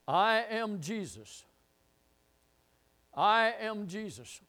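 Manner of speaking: slow and soft, each word given room; hushed solemn answer. Acted. Preacher voicing the Lord's answer to Saul, hushed. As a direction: drop to a quiet, slow declaration.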